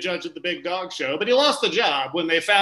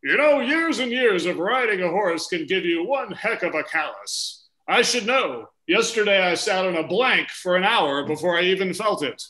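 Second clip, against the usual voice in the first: cowboy voice. Acted. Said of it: "the cowboy voice I'm doing there".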